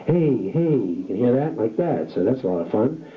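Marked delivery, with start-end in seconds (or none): 0.1-0.6 edgy distortion. Shown as a demonstration. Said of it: "add a little bit of edge to my voice".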